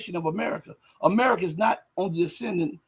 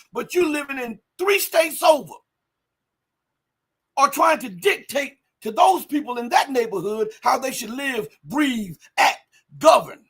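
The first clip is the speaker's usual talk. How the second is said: raised, higher indignant voice; a fired-up street preacher; heated rant; 4 semitones higher than usual. Real, not acted. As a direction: build the outrage line by line.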